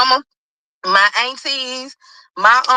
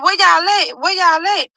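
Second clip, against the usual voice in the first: high pressing mother's question; urgent mom; 8 semitones higher than usual. Retold or imitated. Mom asking where they are, high and urgent. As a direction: demand the location fast. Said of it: "she like".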